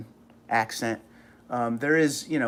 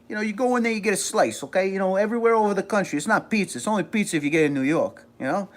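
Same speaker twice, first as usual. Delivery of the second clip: higher-pitched, quick New York accent; 5 semitones higher, faster than usual. Shown as a demonstration. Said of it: "I could turn it on".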